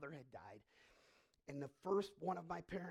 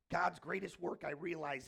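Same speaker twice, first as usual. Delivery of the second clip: ordinary delivery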